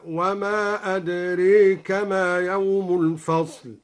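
slow recitation with أدريك inclined; imala on adrak. Shown as a demonstration. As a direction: tilt the vowel in أدريك toward e. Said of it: "وأمال أدراك". (إمالة أدريك بترتيل بطيء)

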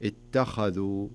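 "اتخذوا" slow, light ت, heavy خ, light ذ; correct heaviness. Shown as a demonstration. Teacher showing the right way, slow "اتخذوا" with heavy خ only. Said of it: "ولا أقول".

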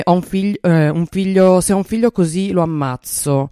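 imitated indignant threat. Quoting someone commenting at the TV in the seventies, mock indignant. Quotes a homophobic TV viewer's threat.

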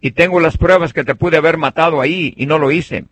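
called out high and loud across a distance; high, loud calling voice. Retold or imitated. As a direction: shout it up to the king far away. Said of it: "le grita".

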